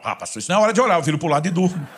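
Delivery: mock excuse through laughter; laughing imitation. Pastor imitating the lazy man, laughing.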